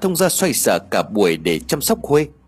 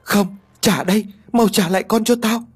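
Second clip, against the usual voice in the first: demanding; 9 semitones higher than usual. A narrator's reading. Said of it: "vẫn liên tục đòi con".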